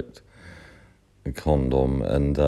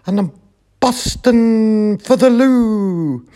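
put-on much higher, louder, slowed-down old lady voice; old Scottish lady; 8 dB louder than usual. Little old neighbour at the door begging to use the loo, high and urgent. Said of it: "she said".

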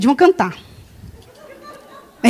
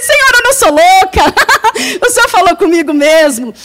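laughing through tears to God; laughing prayer; 3 semitones higher than usual. Retold or imitated. Thanking God, laughing with tears. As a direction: giggle out the relief.

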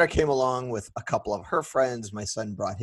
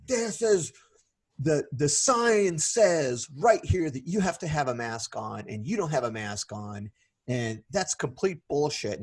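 mock angry telling-off, pitched up at first; retold yelling; 4 semitones higher than usual. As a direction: imitate an indignant stranger scolding. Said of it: "he starts to yell at me".

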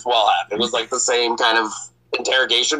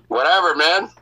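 cocky; 5 semitones higher than usual. Retold or imitated. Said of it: "I get all, like, cocky".

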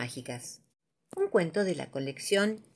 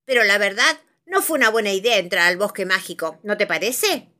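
gentle scolding wizard; 2 semitones higher, 6 dB louder than usual. Acted.

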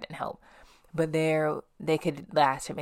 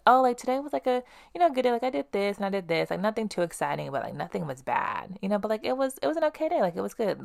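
higher, singsong mimic of cheerful people; mock chirpy people; 6 semitones higher than usual. Imitating people who call their day good, higher mock chirpy voice. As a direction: parody an upbeat recap of a so-so day.

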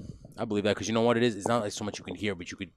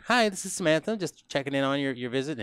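imitating Samantha's phone greeting; 5 semitones higher than usual. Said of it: "and you're like".

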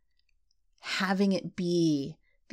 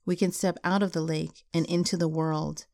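measured, unhurried poetry reading; poem reading. Acted. Podcast host reading a closing poem to listeners, measured and unhurried.

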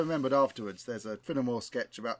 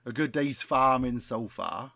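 put-on West Country accent; slower than usual. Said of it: "best West Country accent".

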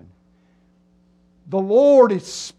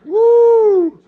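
high, drawn-out woos; mock freaked-out whooping; 10 semitones higher, 9 dB louder, much slower than usual. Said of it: "and you're like going".

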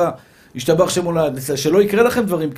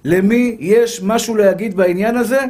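heavenly proclamation; 3 semitones higher, slower than usual. Acted. Heavenly voice asks who will speak on the man's case, slow proclamation. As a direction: proclaim it slowly, stretching the words like a herald. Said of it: "בת קול למעלה בשמיים מכריזה ואומרת".

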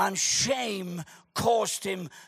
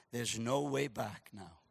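hushed despair; 11 semitones lower, 12 dB quieter than usual. Acted. Peter weeping in despair.

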